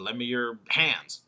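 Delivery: "hands" drawn out as a contrast; stress on hands. Shown as a demonstration. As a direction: slowly land on "hands" as the last alternative. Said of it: "as opposed to what?".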